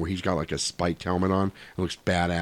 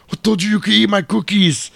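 smug neighbour; 12 semitones higher, 7 dB louder than usual. Retold or imitated.

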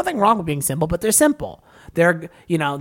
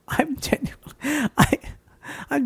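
laughing; 9 semitones higher, 4 dB quieter, slower than usual. Real, not acted. Laughing, mock distress.

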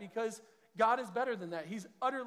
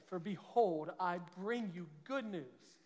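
scripture reading. Acted. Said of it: "this is what the angel said".

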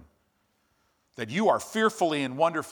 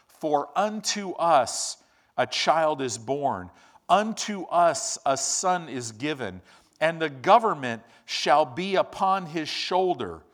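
slow, solemn proclamation; stately slow Bible reading; scripture reading; 3 dB louder than usual. Acted. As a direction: proclaim it like the angel's announcement. Reading Isaiah aloud.

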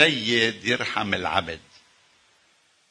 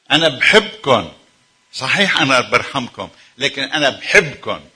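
emphatic, louder divine voice; God speaking lovingly; 5 dB louder than usual. Acted. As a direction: declare love from above. Voicing God's love.

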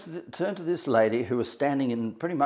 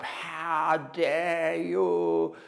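slow, drawn-out, higher wounded challenge; pained outrage; 5 semitones higher, much slower than usual. Retold or imitated. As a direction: stretch each word like a fresh wound. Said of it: "like that".

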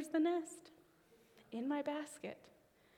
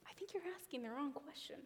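quick gentle whisper; God's quiet nudge, whispered; 2 semitones higher, 9 dB quieter, faster than usual. Retold or imitated. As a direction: breathe it like a quiet inner voice. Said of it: "very nudgely felt".

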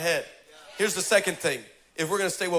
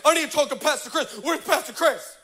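demanding; 8 semitones higher than usual. Retold or imitated. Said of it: "storms her office and goes".

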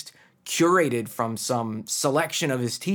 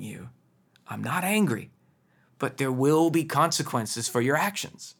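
very calm voice. Retold or imitated. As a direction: gently reassure a child while setting a limit. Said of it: "I'll often say in a very calm voice".

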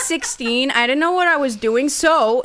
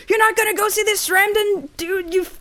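higher-pitched panicked protest; mock freaking-out mom; 7 semitones higher than usual. Mom forbidding a date with an internet stranger, mock panic. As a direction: imitate a mother freaking out. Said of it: "freaking out".

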